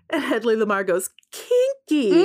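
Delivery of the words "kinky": high, giggling single word; laughing kinky. Retold or imitated. Hedley Lamarr reacting to Bart, high and laughing. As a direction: squeal it through a laugh.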